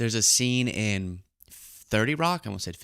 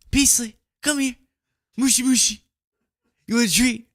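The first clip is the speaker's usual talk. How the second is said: very high cooing to a dog; high pet-calling voice; 13 semitones higher, 4 dB louder than usual. Real, not acted. Calling the dog over for a treat, high pet voice. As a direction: coax a pet in a high, tiny voice.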